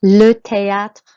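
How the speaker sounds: THÉÂTRE with é like "ay", â like "ah"; loud, slow model of THÉÂTRE for learners; careful French pronunciation. Shown as a demonstration. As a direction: sound out THÉÂTRE carefully, "tay-AH-tr". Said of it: "makes an A sound on the E accent".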